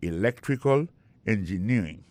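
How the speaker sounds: "electrical engineering" with LEC and NEER leaned on; stressed syllables. Shown as a demonstration. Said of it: "l'accent tombé même sur avant dernier syllabe".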